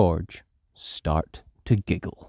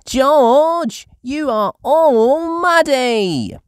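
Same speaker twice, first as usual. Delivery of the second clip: high, loud, slow dismay; Peppa crying out; 7 dB louder, much slower than usual. A narrator's reading. Peppa exclaiming that George is covered in mud. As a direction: gasp it out at the mess. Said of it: "cries Peppa".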